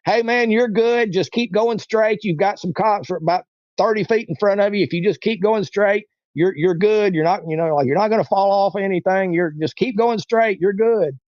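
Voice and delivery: calling out steady directions over a crowd; retold yelling. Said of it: "I got down and yelled in his ear".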